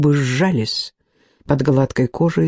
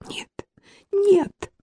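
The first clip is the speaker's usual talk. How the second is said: sudden high cry of protest; 4 dB quieter than usual. A narrator's reading. Fenella cries out to stop the duel, high and alarmed. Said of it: "закричала Фенелла".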